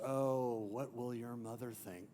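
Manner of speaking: a touch of the scheming uncle twisting the knife; softly menacing Scar imitation; sinister Scar voice. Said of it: "most sinister voice ever".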